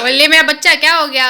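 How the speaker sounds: fussing over the little one. Real, not acted. Mother coos to upset child.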